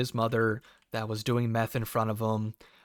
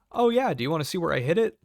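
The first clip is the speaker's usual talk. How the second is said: eager woman; 6 semitones higher, 5 dB louder, much faster than usual. Retold or imitated. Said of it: "She goes".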